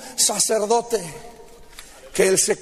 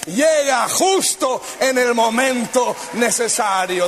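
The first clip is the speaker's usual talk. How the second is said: fervent preaching. Acted. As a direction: preach it with rising fire to the crowd. Rising sermon climax.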